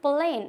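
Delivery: "plain" with a long ay; long A sound. Shown as a demonstration. Teacher confirming the reading of the word, long A. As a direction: hold the vowel in "plain". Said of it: "long ए की sound दे रहा है".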